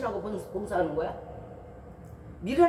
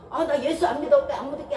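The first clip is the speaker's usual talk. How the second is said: mock denial; 5 semitones higher, 4 dB louder than usual. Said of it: "도망가면 되지".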